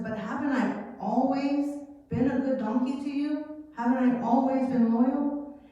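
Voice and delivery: lightly voiced faithful donkey, hurt; pleading donkey. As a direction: remind him gently you've been loyal.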